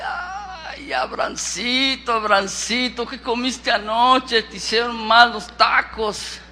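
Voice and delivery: drawn-out, teasing disbelief; burla cariñosa. Acted. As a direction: humour him as if he's talking nonsense. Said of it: "Y Sara se ríe". (burla incrédula, alargando las palabras)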